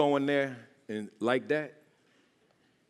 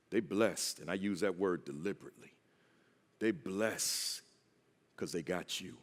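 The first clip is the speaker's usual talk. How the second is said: earnest appeal; 5 semitones lower, 4 dB quieter than usual. Real, not acted. Speaker drops to earnest appeal.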